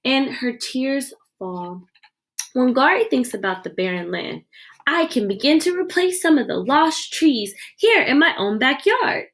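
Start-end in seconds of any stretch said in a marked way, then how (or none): 4.9-9.3 determined resolve. Acted. Wangari resolves to replant.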